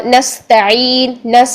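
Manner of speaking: نستعین slow, s held as a hiss; whistling seen. Shown as a demonstration. Teacher showing seen's whistle, نس with long hiss. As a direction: stop on نس and sustain the thin s. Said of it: "سین میں سیٹی ہونی چاہیے".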